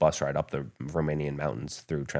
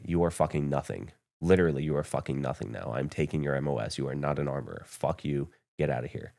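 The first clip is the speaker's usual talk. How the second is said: retold chewing-out; 3 semitones lower, 4 dB quieter than usual. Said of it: "And he said".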